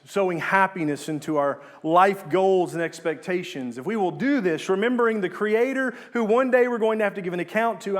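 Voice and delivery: preacher gathering force; building sermon. Real, not acted. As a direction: build with conviction through each clause.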